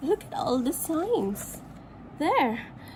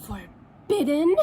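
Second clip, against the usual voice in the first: indignant frog; 3 semitones higher than usual. Acted. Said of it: "says the dog angrily".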